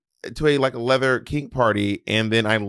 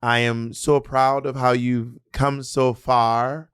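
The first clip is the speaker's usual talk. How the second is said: West Indian aunt; much slower than usual. Retold or imitated. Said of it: "They'd be like".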